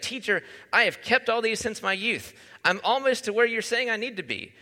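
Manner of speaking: a lightly voiced happy young man. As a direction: say it like he's nearly there, glad. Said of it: "in a sort of happy way".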